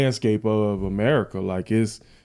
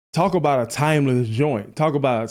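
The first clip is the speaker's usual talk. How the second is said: wearing a retainer. Real, not acted. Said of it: "I got a retainer in my mouth, so I'm biting my cheek".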